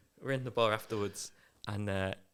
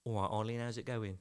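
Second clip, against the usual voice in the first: attempted Nottingham accent; 5 dB quieter than usual. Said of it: "Sorry, that was terrible".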